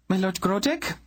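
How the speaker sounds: a hint of steel in her words; steely queen. A narrator's reading. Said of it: "hint of steel in her voice".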